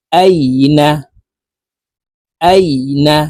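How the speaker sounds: আইনা with আই passed over quickly, not held; quick glide. Shown as a demonstration. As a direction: move briskly through the diphthong in আইনা. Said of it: "তাড়াতাড়ি করে পড়ব". (আইনা তাড়াতাড়ি করে পড়া)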